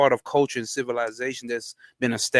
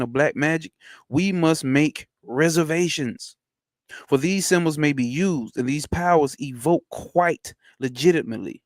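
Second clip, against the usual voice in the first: measured, slightly raised book-reading voice; reading aloud; 3 semitones higher than usual. Acted. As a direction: read the old text deliberately, like a formal lecture. Reads occult book aloud.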